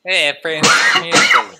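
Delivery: loud emphatic shout of France. Real, not acted. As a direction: yell the word France.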